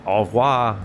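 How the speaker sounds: half-hearted guttural French accent; attempted French accent. Shown as a demonstration. Streamer failing at guttural French, weak French accent. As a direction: try a throaty French accent, not convincingly. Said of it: "I can't do, like, the guttural".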